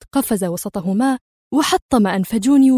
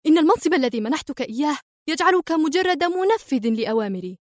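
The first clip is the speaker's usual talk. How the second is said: much higher, raging insistence; furious yelling; 6 semitones higher than usual. Acted. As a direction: put him in his place, furious. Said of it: "صرخت في ثورة".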